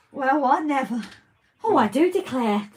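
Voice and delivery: high prim shocked voice; mock scandalised lady. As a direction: clutch the pearls, scandalised.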